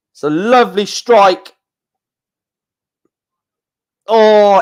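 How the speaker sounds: lively live football commentary; keyed-up commentator after a near miss; excited play-by-play. Real, not acted. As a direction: call the match with rising excitement.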